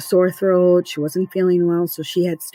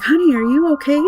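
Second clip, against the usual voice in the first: higher-pitched mock yell to daughter; retold call-out; 8 semitones higher, 4 dB louder than usual. Mother calling to her daughter from another room, retold yell. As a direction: call out, a little louder, checking on her. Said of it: "I, like, yelled to her".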